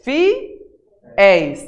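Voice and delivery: FIÉIS in two separate beats, FI, pause, ÉIS; split into syllables. Shown as a demonstration. Teacher proving it's the last syllable, FIÉIS split in two. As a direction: break FIÉIS before the open ÉIS. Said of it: "tá na última sílaba".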